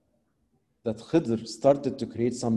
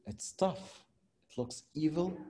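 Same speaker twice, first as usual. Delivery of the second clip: hushed, much softer confession; whispered aside; 13 dB quieter than usual. Real, not acted. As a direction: let it slip under the breath. Preacher confides his doubt.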